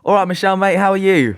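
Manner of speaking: high, lilting British greeting; chirpy British "all right, mate"; British accent. Shown as a demonstration. Greeting Michelle to show off English, British accent. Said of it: "So English".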